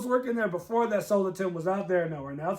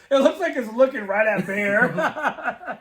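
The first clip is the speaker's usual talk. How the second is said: slow, laughing through the line; 5 dB louder, slower than usual. Real, not acted. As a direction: laugh the words out. Laughing at gory scene.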